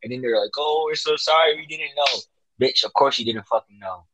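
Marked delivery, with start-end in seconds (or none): 0.6-2.2 higher-pitched fake sorry; mock apology. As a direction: imitate a hollow apology. Mocking characters' apology in retelling.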